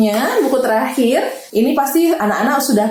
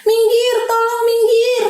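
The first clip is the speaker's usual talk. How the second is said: urgent; 10 semitones higher than usual. Acted. Ambulance character voice, hurrying.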